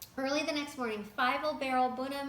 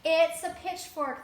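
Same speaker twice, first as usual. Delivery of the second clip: higher, loud, slow insistence; insisting; 4 semitones higher, 9 dB louder, slower than usual. A narrator's reading. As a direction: insist it's a pitchfork. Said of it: "the farmer insisted".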